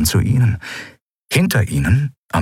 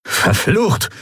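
cursing; 11 semitones higher than usual. Acted. Curse after the bad news.

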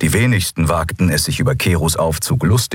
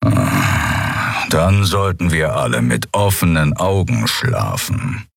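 grim grumble; 2 semitones lower, slower than usual. Acted. Keru's grim grumbled answer.

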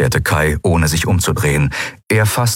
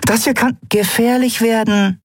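very high, urgent pleading; exasperated warning. Acted. Endriel warns crew of danger, exasperated urgency.

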